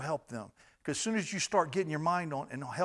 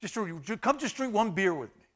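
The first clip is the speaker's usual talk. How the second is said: coaxing friend; 5 semitones higher than usual. Retold or imitated. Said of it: "had a friend say".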